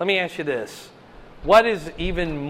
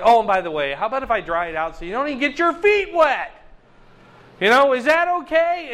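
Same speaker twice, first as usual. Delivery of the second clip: breezy, offhand voice of God, rising higher at the end; casual God; 5 semitones higher, 3 dB louder, faster than usual. Retold or imitated. God speaking to the Israelites, breezy and offhand. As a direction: toss it off like a casual afterthought. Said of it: "and it's like".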